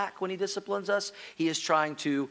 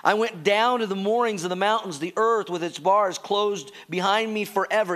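scripture reading; 2 semitones higher than usual. Acted. Reads scripture.

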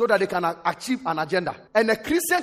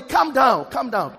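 louder repeat after the first weak try; louder calm down; 4 semitones higher, 5 dB louder, slower than usual. Shown as a demonstration. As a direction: say it louder, with more energy to the neighbour. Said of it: "See the way your voice is low".

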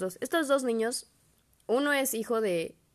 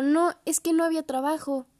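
Chema quoted; 9 semitones higher, 5 dB louder than usual. Retold or imitated. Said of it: "Y me dijo".

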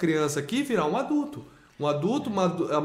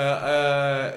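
usual speaking voice

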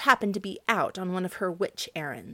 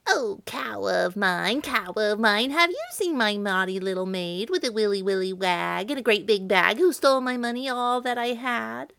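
mild witch voice calling; 4 dB louder than usual. Acted. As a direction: call out to the cow like a searching old witch. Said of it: "called to the cow".

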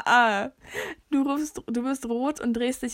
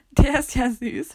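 gushing; 6 dB louder, slower than usual. Pretend. Reads quiz answer option aloud.

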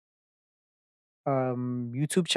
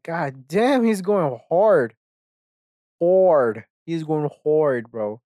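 drawn-out, slightly louder awe at someone's rant; impressed reaction; 3 dB louder, much slower than usual. Retold or imitated. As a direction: re-enact being blown away, stretching the key words. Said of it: "I remember listening to it and I'm like".

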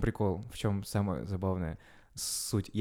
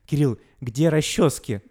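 slow, louder mother's demand; mom waking son at night; 4 semitones higher, 8 dB louder, slower than usual. Retold or imitated. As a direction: call out like a puzzled mom. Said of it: "подбудит меня".

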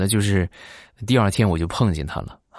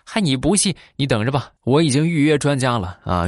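indignant friend; 4 semitones higher than usual. Retold or imitated. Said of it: "他不服气".

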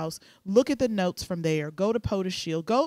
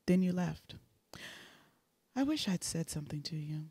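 sultry narrator; 4 dB quieter than usual. Pretend. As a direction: read it like a sultry love note. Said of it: "I'm gonna read the misconnections in my sexy voice".

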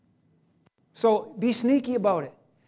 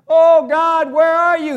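loud, higher cry for help; crying out to God; 6 semitones higher, 7 dB louder, slower than usual. Retold or imitated. Believer in battle crying out loud to God. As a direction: call out desperately to God. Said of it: "when you're crying".

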